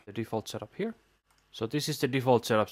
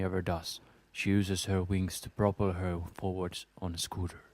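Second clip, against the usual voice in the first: story narration; 3 semitones lower than usual. Acted. Reads fan fiction aloud.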